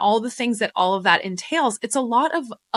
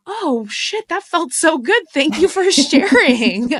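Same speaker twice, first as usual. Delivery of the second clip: high, loud, delighted gush breaking into a laugh; overjoyed thank-you to a fan, laughing; 7 semitones higher, 6 dB louder than usual. Retold or imitated. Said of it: "you're like".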